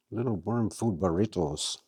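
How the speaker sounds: "burritos" rolled with a mock Spanish accent; terrible Spanish accent. Shown as a demonstration. Vlogger jokes to viewers in a bad Spanish accent. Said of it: "Is that a terrible accent?".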